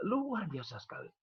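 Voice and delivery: whispered wonder, barely voiced; hushed amazement at God's work; awed whisper. Real, not acted. Awed whisper after pause.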